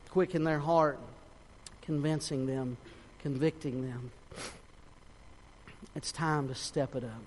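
pleading prayer, swelling on each address and sinking at phrase ends; earnest prayer. Real, not acted. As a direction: pray aloud for the congregation with pauses. Leads a closing prayer.

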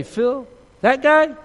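high, loud, drawn-out questioning; acted "who, him?" disbelief; mock disbelief. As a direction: play incredulous at being linked to him. Acts out denying knowing a friend.

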